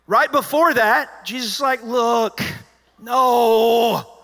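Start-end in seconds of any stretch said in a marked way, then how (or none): 1.8-4.2 loud, high flat refusal; harsh no. Retold or imitated. Jesus mock-shouting a refusal at the disciples. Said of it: "He didn't say it like that".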